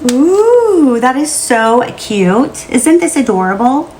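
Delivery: high squealy ooh; gushing delight. Real, not acted. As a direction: squeal over something cute. Reveals ornament, delighted.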